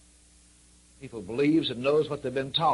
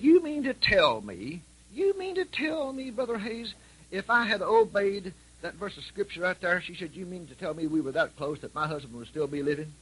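widow's tearful disbelief; 5 semitones higher than usual. Retold or imitated. Widow realising she could have saved her husband, high and pleading. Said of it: "And she said".

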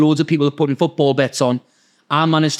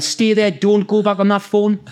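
higher-pitched, urgent order; imitating a boss in a mild panic; panicked boss; 5 semitones higher than usual. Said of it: "he's in panic mode".

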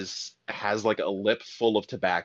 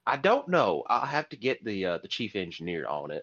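put-on Southern accent. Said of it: "deep Southern accents".

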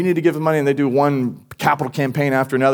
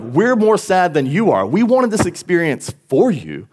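disappointed parent; 6 semitones higher, 3 dB louder than usual. Retold or imitated. Parents' disappointed reply, retold.

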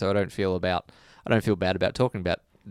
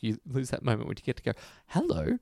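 patronising, talking down to them; a smug, condescending charity voice; 2 semitones higher than usual. Retold or imitated. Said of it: "he adopted this very condescending voice".

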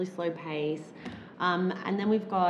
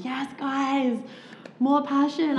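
high, loud cheering with a laugh; 8 semitones higher, 6 dB louder, slower than usual. Retold or imitated. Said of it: "I'm like".

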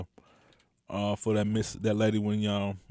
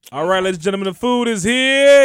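announcer voice; 8 semitones higher, 11 dB louder than usual. Acted. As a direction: boom it out like a game show host. Hosts announcing the food.

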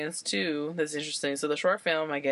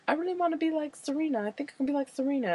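quoting character; 10 semitones higher than usual. Retold or imitated. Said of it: "she's like".

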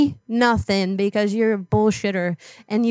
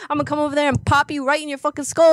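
put-on tough-girl threat; 3 semitones higher than usual. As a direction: talk trash like a street fighter. Prank caller threatens to pop him.

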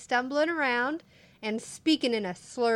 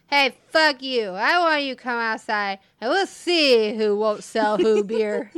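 put-on loud slurred drunk threat; 7 dB louder than usual. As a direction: slur it out like a belligerent drunk. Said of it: "So I'm saying this in a drunk voice".

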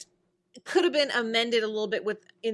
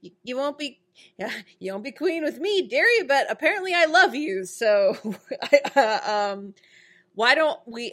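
Rumpelstiltskin voice; 3 semitones higher, 4 dB louder than usual. Retold or imitated. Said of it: "Rumpelstiltskin's like".

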